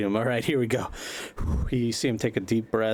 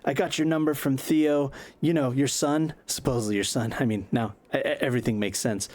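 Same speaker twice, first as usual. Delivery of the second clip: high, fast, pushy patter; eager vlogger; 5 semitones higher than usual. Acted. Buzz cold-calling Kerry, high and fast. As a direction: sell yourself to a celebrity in one breath.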